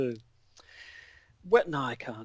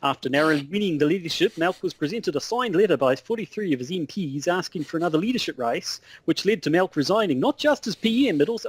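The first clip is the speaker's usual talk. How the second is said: wobbly put-on Australian accent; Aussie correspondent losing hold of the accent; mock Australian news report. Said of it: "I don't even know what I'm doing".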